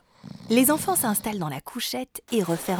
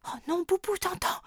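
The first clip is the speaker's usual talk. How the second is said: panicked; 14 semitones higher, faster than usual. Acted. Panicked child hiding.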